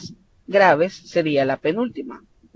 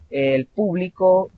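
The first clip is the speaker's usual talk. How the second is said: "público" stressed on PÚ; PÚ-bli-co, as a noun; stress on first syllable; 3 semitones higher, slower than usual. Shown as a demonstration. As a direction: hit the front of "público". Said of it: "en la primera sílaba".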